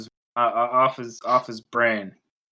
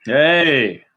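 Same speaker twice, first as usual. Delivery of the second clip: cheeky British ooh-er; 4 dB louder, much slower than usual. Shown as a demonstration. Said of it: "Ooh-er is an actual thing".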